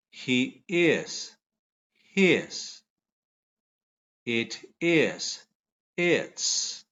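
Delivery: each pair read slowly for repeating; pronunciation drill. Shown as a demonstration. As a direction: model the sound, then pause for the class. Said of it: "Vamos otra vez".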